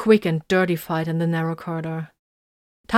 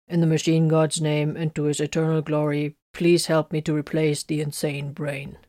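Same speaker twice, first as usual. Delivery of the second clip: grate it out like a servo-skull; scratchy mechanical voice; 2 semitones lower than usual. Acted. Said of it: "his scratchy mechanical voice".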